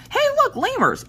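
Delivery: very high excited call; excited pointing out. Retold or imitated. Visitor spotting lemurs next to the chickens, excited high call. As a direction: call it out like a thrilled sightseer.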